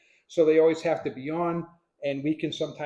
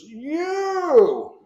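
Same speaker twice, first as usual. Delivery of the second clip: sharp high shout across the arena; retold shout; 11 semitones higher, 7 dB louder than usual. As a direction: bark it out at the stranger. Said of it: "and he goes".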